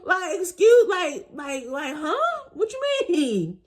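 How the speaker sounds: high, breaking disbelief, close to tears; high, half-crying confusion at being sent away; stunned confusion. Retold or imitated. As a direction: fumble for words, shocked and hurt. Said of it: "And I'm just like".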